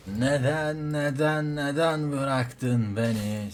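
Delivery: slow, drawn-out whining "neden"; mock lament. Abandoned player wails at his teammate, hammed-up whine. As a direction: stretch every word like a wounded hero.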